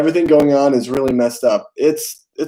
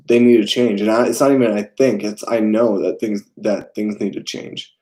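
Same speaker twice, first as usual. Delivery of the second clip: talking around a retainer; retainer in mouth. Real, not acted. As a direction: speak with a retainer in. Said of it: "sorry, I have a retainer in my mouth".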